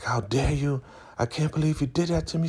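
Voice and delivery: high, indignant imitation; mock upset woman. Elder Mother upset at Zane, high mock indignation. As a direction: put on a high voice of outrage. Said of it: "she was definitely upset at Zane".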